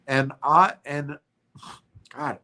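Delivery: blocked nose, stuffy voice; talking through a congested nose. Real, not acted. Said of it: "I'm congested and I don't".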